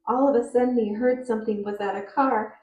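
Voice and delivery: rushed through without stopping at the punctuation; reading fast with no pauses, ignoring punctuation; run-on, no pauses. Shown as a demonstration. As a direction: blur the two sentences together, no pause. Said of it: "If I don't pause at punctuation".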